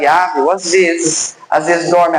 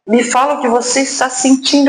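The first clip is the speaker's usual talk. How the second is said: higher, hollow echo as if in an empty head; 6 semitones higher than usual. Retold or imitated. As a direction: let "Me fala o que você está sentindo" ring out like an echo. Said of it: "ecoou, assim, de uma maneira diferente".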